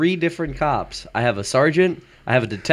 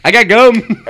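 mock voice; 12 semitones higher, 13 dB louder, slower than usual. Mocking friend's gum excuse.

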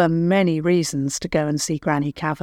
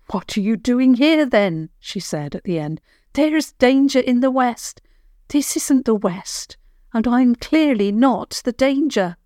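higher, brisk, tart granny voice; sharp old woman; 6 semitones higher than usual. A narrator's reading. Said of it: "Granny Cavern could be quite sharp".

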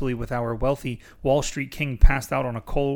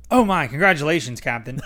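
excited; 4 dB louder than usual. Acted. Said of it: "the man exclaimed".

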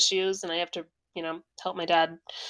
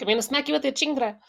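put-on El Paso accent; 4 semitones higher, faster than usual. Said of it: "that's the El Paso accent".

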